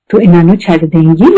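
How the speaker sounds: imitating Guruji's gentle request; most polite voice. The guru gently asks the aunt to leave them, very politely. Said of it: "उससे polite आवाज आज तक मैंने सुनी नहीं है".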